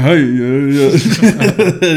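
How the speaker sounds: high-pitched cartoon voice; Glowbox imitation. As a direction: squeal it like the little buddy. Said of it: "How'd it go, bro? You did it pretty good earlier".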